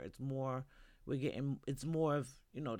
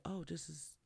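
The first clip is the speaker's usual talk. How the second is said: shocked; 8 dB quieter than usual. Retold or imitated. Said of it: "they were shocked, like".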